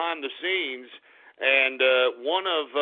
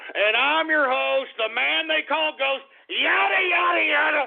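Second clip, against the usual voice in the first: mock radio announcer; 10 semitones higher, 3 dB louder than usual. Mock announcer intro, high and loud.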